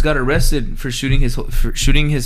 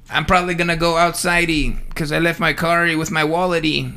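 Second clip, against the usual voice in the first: mock kid rhyme. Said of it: "It's like a kid wrote it".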